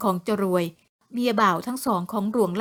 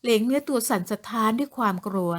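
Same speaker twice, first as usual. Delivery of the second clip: ordinary delivery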